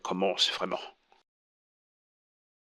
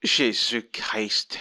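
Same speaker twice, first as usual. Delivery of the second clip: shocked gasp of disbelief; much slower than usual. Acted. Shocked reaction to confession.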